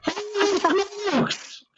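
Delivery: drawn-out high astonished exclamation; slow, high amazed gasp of words; surprised. Real, not acted. Realizes the caller is Mary.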